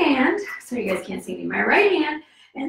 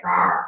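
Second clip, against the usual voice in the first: playful bear roar; 8 semitones lower than usual. Pretend. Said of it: "like a bear".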